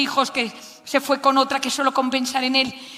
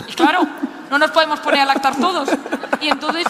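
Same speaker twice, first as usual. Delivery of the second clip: laughing through the joke; amused, laughing while telling it. Real, not acted. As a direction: let a laugh run under the words.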